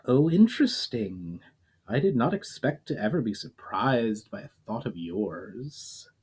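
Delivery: a touch of amused surprise, unhurried; amused inner voice. Acted. Unnamed voice speaking in mind.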